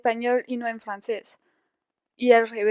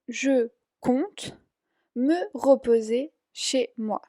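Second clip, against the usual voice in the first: slow repeat; much slower than usual. Shown as a demonstration. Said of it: "ya repito la respuesta".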